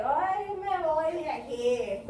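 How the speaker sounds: put-on slow, loud, drawn-out drunken whine; drunk man. Drunk leaving the bar at closing, loud slurring drawl. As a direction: drag it out like a drunk.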